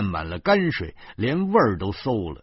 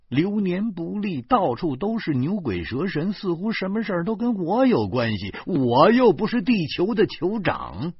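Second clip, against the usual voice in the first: exasperated; 10 semitones higher than usual. Acted. Husband fuming alone after the quarrel, exasperated. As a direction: rail at bad luck in exasperation.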